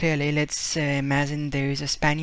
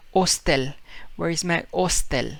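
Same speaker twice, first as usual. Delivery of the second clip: put-on Spanish accent. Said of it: "He would say".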